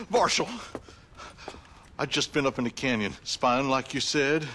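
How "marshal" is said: much higher yell for the marshal; deputy hollering for the marshal; calling out. Acted. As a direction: call him from far across town.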